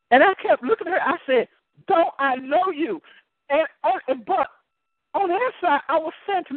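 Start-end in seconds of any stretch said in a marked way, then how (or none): 1.9-3.0 slow, raised-pitch insistence; very stern. Retold or imitated. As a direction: press the question slowly and firmly. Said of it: "I said it very stern".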